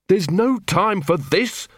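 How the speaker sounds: snarling. A narrator's reading. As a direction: bite out the words. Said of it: "snarled Angua".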